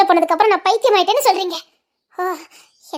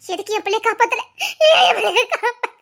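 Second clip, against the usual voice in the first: sobbing lament. Acted. Grieving mother sobbing.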